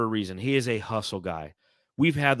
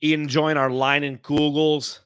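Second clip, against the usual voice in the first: put-on Minnesota accent, higher and louder; 5 semitones higher, 5 dB louder than usual. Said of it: "I don't know if that's a good Minnesota accent or not".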